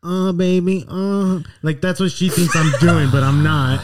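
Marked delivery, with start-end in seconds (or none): 0.0-1.4 mock moaning. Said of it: "She's over here saying".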